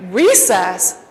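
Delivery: Recess? echoed in disbelief; disbelieving echo. Retold or imitated. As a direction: throw back Recess? as a stunned question. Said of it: "I'm like".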